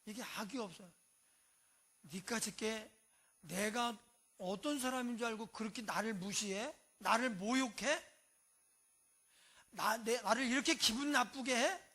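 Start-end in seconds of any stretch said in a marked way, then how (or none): 2.0-11.8 louder, indignant retort; offended outburst. Retold or imitated. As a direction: bristle at the insult and push it out. Evil man's offended outburst.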